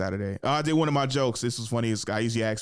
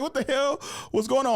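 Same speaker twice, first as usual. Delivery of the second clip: high-pitched incredulous questioning; mock disbelief; 11 semitones higher than usual. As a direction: demand answers with comic outrage, pitched up. Comic retelling of baffled questioning.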